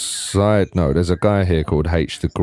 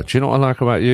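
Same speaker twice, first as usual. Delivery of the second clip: trying out a line; 6 semitones higher, 4 dB louder, much faster than usual. Acted. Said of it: "I'm gonna call my missus and go".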